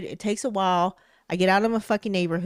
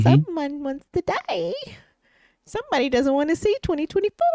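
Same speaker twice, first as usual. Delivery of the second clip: mock threat; 7 semitones higher than usual.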